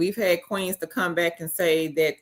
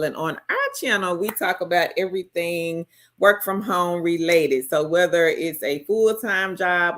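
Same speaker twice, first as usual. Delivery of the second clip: polished host intro voice; professional voice. Acted. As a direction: switch into your on-air presenter voice. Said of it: "Get in my professional voice".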